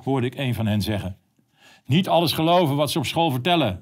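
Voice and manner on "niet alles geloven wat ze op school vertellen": raised, calling after schoolkids; called out. Retold or imitated. Calling after schoolkids leaving the supermarket, mildly raised. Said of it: "riep ik ze na".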